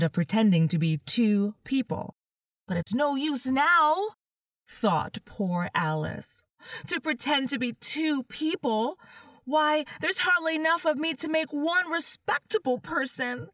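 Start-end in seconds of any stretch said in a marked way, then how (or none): 2.7-3.9 put-on a girl's voice, higher and wistful; young Alice, wistful. Alice's voice in the story. 6.9-13.5 put-on a girl's voice, higher and wistful; young Alice, wistful. Alice's voice in the story.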